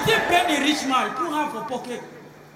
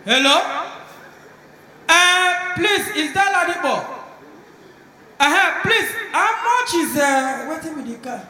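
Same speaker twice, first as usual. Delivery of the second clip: shocked phone call; 5 semitones higher than usual. Acted. Guy phones about price.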